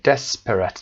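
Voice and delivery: desperate with DES stressed, rest unstressed. Shown as a demonstration. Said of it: "استرس روی دس".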